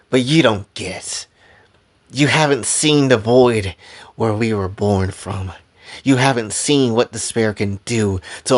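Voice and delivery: worn, resolute fighter, halting with long pauses; lightly acted grim conviction, mostly measured and subdued. Exhausted fighter answers her opponents about despair, grimly resolute. Character's quoted speech.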